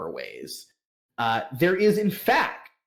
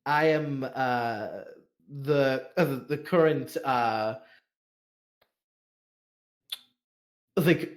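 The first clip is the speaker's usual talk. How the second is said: madam's welcome. Acted. Madam welcoming guests to the Jade Spring, lightly gracious. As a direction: play the host making her welcome. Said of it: "and maybe is now like".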